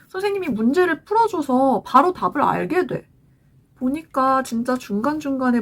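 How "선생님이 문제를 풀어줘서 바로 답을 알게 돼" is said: lightly voiced kid, pitched higher; a hint of a child explaining to mom; imitated child. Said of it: "아이가 그래요".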